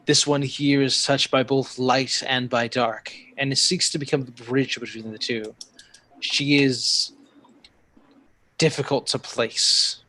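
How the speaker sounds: slow, lightly voiced oracle; measured telepathic creature voice; mystical creature. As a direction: pronounce it slowly, weighing each phrase. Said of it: "and she says".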